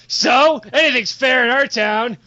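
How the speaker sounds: punched-up, challenging retort; defiant rebuff. Acted. Goblin guard rebuffing the killer in his town, defiant. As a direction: hit "So" hard and brush him off.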